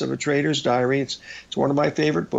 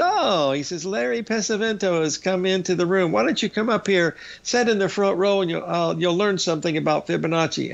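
jovial Australian; 4 semitones higher than usual. Retold or imitated. Australian speaker teasing from stage.

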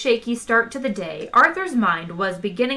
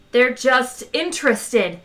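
louder, slow insistent shout; 3 semitones higher, 4 dB louder, slower than usual. Acted. Zaphod shouting to calm the tense crew. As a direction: shout down the worry. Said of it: "shouted Zaphod".

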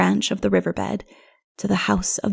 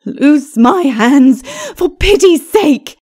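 high, loud, slow agonised groan; groaned plea; 7 semitones higher, 8 dB louder, slower than usual. A narrator's reading. Lilith bound and begging, high agonised groan. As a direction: beg in agony, drawing the words out. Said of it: "she groaned".

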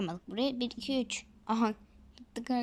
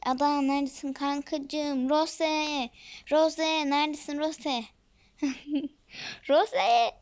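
calling out; 4 semitones higher, 4 dB louder, slower than usual. Real, not acted. Calling out for friend Ada.

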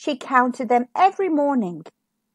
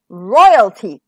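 lightly voiced king; 3 semitones lower, 9 dB louder than usual. A narrator's reading. King's line, voiced loud.

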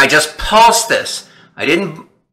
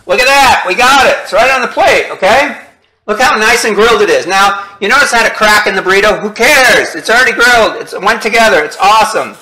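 higher and brighter, thrilled with the result; excited show-off; 5 semitones higher than usual. Real, not acted. Chef showing viewers the finished burrito, excited. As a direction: proudly present the burrito, pitch up.

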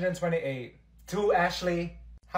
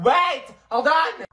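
mock panic; 10 semitones higher, 9 dB louder, slower than usual. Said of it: "I was like".

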